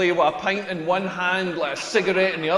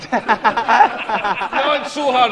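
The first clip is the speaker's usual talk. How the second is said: mock moaning woman; 4 semitones higher, slower than usual. Wished-for dirty talk.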